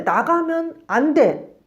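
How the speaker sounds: parent warning. Retold or imitated. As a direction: threaten the child slowly. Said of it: "근데".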